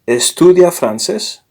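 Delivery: teacher stresses «estudia»; stressed model. Shown as a demonstration. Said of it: "So, usted".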